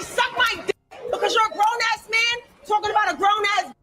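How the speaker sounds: real angry rant with bursts of shouting; crashing out. Real, not acted. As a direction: tear into the other streamer, heated. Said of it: "I'm crashing out".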